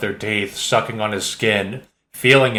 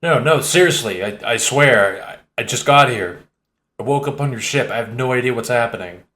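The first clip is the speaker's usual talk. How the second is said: pleading. Acted. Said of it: "Gorka pleads".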